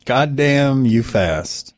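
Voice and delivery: goddamn you fast, drawn out; slow-motion repeat of a quip; slow, deliberate echo. Real, not acted. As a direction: stretch each word out slowly. Slowly echoes remark on fast talk.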